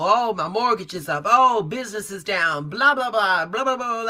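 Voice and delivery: complaining, delivered as a long list of gripes. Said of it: "'cause he was giving me the laundry list".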